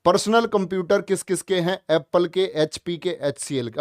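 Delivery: speaking up so the class hears. Shown as a demonstration. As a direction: project the voice out loud. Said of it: "और थोड़ा तेज बोलता हूँ मैं".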